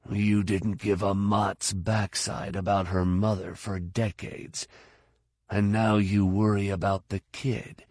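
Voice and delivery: understated inner voice of reproach; self-reproaching old fighter. Acted. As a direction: chide yourself under your breath.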